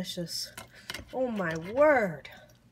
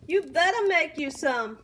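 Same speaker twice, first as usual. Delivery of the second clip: higher and louder, insisting; urging viewers, louder the second time; louder insistence; 5 semitones higher, 5 dB louder than usual. Real, not acted. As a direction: push it on the repeat. Repeated louder for emphasis.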